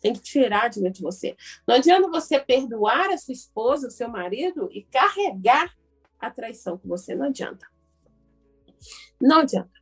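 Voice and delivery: ordinary delivery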